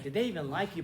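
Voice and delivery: mildly dismissive "did they EVEN like you"; lightly acted insulting disbelief; insulting question. Shown as a demonstration. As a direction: ask it as a light jab. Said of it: "like, the insulting sense".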